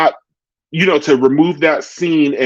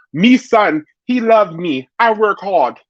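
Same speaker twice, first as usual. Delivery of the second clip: higher-pitched mock Jamaican accent; false Jamaican accent; 6 semitones higher than usual. Retelling Spice's taunt to viewers, in a fake Jamaican accent. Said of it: "false Jamaican accent".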